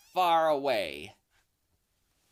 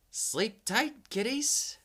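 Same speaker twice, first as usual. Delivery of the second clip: creepy bedtime warning, sinking low; spooky host teasing the kiddies; horror host; 3 semitones lower than usual. Acted. Spooky sign-off after creature description.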